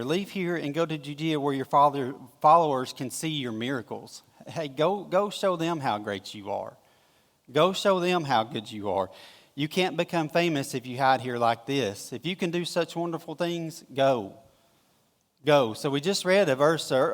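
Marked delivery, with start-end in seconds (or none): 0.0-4.2 sarcastic. Shown as a demonstration. Pastor voicing the brothers' taunt, sarcastic. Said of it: "just kinda hear the sarcasm here". 4.5-15.7 sarcastic taunt. Retold or imitated. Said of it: "hear the sarcasm".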